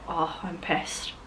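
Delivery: put-on drunk. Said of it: "It means you're drunk".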